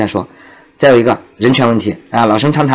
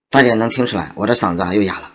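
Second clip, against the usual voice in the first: real hoarse, worn-out voice; 3 semitones lower, 5 dB quieter, faster than usual. Real, not acted. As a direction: speak through a hoarse throat.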